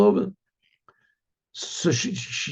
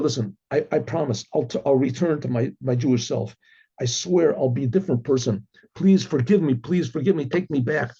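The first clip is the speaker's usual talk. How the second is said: lower-pitched, subdued mock pleading; earnest plea; 4 semitones lower than usual. Husband begs wife to take him back, earnest retold plea. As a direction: promise it low and sincerely, as a retold plea.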